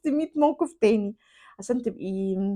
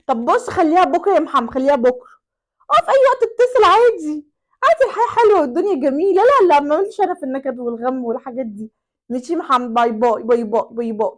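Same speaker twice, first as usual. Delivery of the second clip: higher, louder flirty sign-off; flirty goodbye; 3 semitones higher, 7 dB louder than usual. Acted. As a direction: wrap up the call sweetly. العشيقة تنهي المكالمة بدلع. (العشيقة تودع محمد بدلع)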